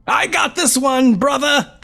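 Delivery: very high squeaky pixie shout; tiny excited fairy yelling. Acted. Twin brownie shouts.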